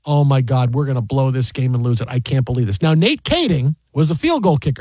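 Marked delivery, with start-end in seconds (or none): 0.1-2.8 worried fan. Retold or imitated. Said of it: "I'm going".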